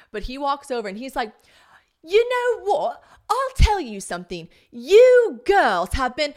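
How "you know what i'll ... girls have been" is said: loud, drawn-out telling-off in mimicry; aggressive British man. British husband walks over to scold the girls, mock aggressive. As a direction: imitate an angry man laying into someone, slowly. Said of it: "low-key pretty aggressive".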